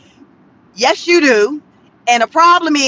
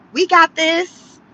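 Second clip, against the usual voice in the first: mocking confident quote; 3 semitones higher, slower than usual. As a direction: mimic the city's swagger, "We got this" drawn out and lifted at the end. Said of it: "Angelino said".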